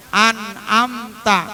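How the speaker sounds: slow "an'amta" in separated syllables; careful syllable split. Shown as a demonstration. Teacher warning about misreading, "an'amta" slowly separated. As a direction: break up "an'amta" and hold each part. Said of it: "Jangan bacanya".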